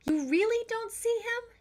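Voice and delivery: can't believe they don't see him; surprised. Acted. Tess asks her parents in high surprise. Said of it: "she asked with surprise".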